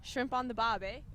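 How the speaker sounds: put-on amateur go at an Australian accent; attempted Australian accent. Guest trying the accent on request, mock Australian. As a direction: echo the catchphrase in mock Australian. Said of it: "Give me an Australian accent".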